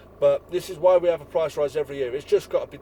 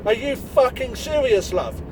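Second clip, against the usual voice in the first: mock outrage; 6 semitones higher, 4 dB louder, slower than usual. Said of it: "I, I wanna say".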